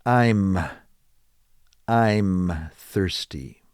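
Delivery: slow "I'm" as one syllable; contracted "I'm thirsty", drawn out; contraction. Shown as a demonstration. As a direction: squeeze "I'm" together. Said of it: "they shorten it and just say".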